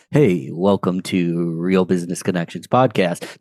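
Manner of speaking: low, even late-night radio DJ voice. Shown as a demonstration. Podcast host shows co-guest an inauthentic broadcast voice, low DJ delivery. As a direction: put on a smooth broadcast voice, kept low and level. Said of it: "late night A M radio D J voice".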